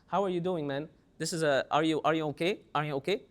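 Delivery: low nasal voice. Acted. Teacher showing how low-voiced people greet a man, low nasal voice. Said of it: "They speak with a low voice".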